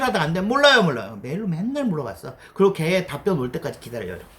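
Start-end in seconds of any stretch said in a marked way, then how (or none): 0.4-1.2 higher, louder whining repetition; a high, pleading I-don't-know; whiny repeat. Retold or imitated. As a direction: whine it twice like a stuck junior. Acting clueless asker.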